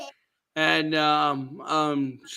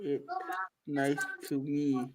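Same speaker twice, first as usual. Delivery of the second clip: dopey deep voice; 3 semitones lower, 10 dB quieter than usual. Retold or imitated. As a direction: rumble it like Darth Vader. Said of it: "I sound like Darth Vader".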